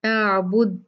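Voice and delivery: अअबुद with a drawn-out opening अ; correct pronunciation. Shown as a demonstration. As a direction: say अअबुद carefully, the अ stretched. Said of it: "वो गलत है". (सही उच्चारण, अअबुद लंबे अ के साथ)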